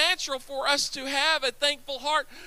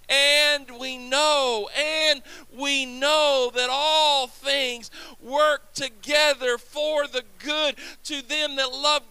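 slow preaching build; slower than usual. Real, not acted.

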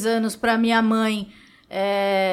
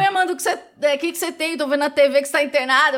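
lightly voiced friend, pitched higher; friend's message; 4 semitones higher, much faster than usual. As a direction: act out a concerned message, a bit higher. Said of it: "me mandou uma mensagem".

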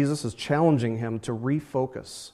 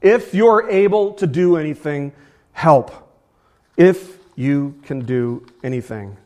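pleading; 3 semitones higher, 6 dB louder than usual. Retold or imitated. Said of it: "this man pleads for help".

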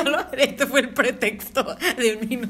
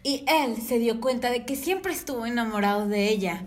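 restrained dubbed-film narrator; understated dubbing read; normal dubbing voice; 2 semitones lower, 3 dB quieter than usual. Acted. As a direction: deliver it as a straight movie dub. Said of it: "hazlo normal".

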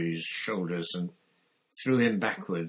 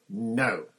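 brief, louder refusal; yell; 3 semitones higher, 6 dB louder than usual. A narrator's reading. Harry intervenes to stop the killing, yelling. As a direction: call out to stop them. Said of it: "Harry yelled".

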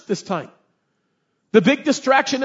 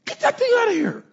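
annoyed prophet; 14 semitones higher than usual. Retold or imitated. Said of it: "And Balaam is like".

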